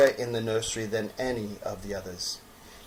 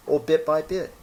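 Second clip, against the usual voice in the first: rabbit voice; 5 semitones higher than usual. Acted.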